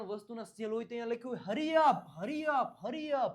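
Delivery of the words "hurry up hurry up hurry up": raised, louder mock sale announcement; urgent sale call. Teacher reads out a shop sale sign to learners, urgent sale call. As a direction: hurry shoppers along with repeated, high-pitched calls.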